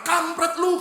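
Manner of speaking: high loud angry curse; angry insult. Acted. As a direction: spit out the insult in anger. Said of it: "wanita ini marah".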